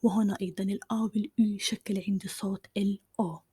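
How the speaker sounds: gentle whispered teaching voice. Real, not acted. Whispered French lesson throughout. (همس هادئ طوال الدرس)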